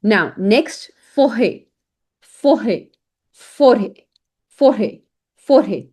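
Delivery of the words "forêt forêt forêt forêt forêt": "forêt" said fo-RAY with a silent T; French pronunciation demo. Shown as a demonstration. Teacher models the ET ending, fo-ray pronunciation. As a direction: end "forêt" on an AY sound, no T. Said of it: "E T is a A sound".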